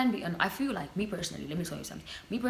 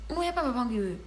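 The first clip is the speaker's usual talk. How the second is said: mock man's voice; 6 semitones higher, 4 dB louder, faster than usual. Mock quote of a man.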